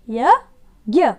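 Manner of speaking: यज्ञ said very slowly and loudly as ya-gya; यज्ञ stretched, ज्ञ sounded as gya; slow model reading. Shown as a demonstration. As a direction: drag out यज्ञ so children hear g and y. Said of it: "ज्ञ, इसको कैसे बोलते हैं".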